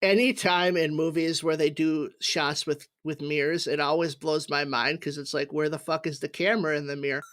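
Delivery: speaking while tipsy. Real, not acted. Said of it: "I'm very drunk right now".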